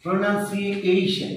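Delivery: "প্রোনাউন্সিয়েশন" slowly with nun, unaccented; right sounds, no accent. Shown as a demonstration. Teacher showing correct pronunciation with wrong accent, slow and even. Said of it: "অ্যাকসেন্টটা ঠিক নেই".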